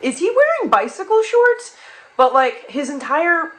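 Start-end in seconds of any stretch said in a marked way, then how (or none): 0.0-1.8 loud question. Retold or imitated. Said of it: "very loudly is like".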